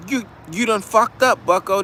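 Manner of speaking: smug lawyer scolding his client; white voice. Retold or imitated. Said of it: "you gotta put your white voice on".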